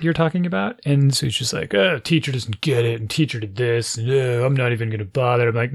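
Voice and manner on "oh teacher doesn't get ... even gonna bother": lightly mocked dismissive kid; a touch of grumbling snark, with an exasperated "ugh"; snarky. Kid dismisses his science teacher, lightly imitated snark. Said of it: "he gets all snarky".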